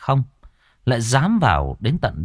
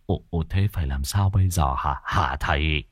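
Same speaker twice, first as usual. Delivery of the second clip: stammering; 6 semitones lower, 4 dB quieter than usual. Acted. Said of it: "Cụ Mốc nhìn cậu lắp bắp".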